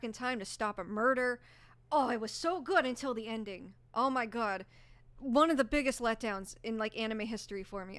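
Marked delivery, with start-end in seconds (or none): 1.9-8.0 real frustration. Real, not acted. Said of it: "I'm getting mad thinking about it".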